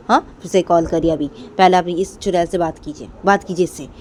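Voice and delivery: mock bitter scolding; angry jealousy. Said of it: "तो पायल वो पूनम को बोलती है".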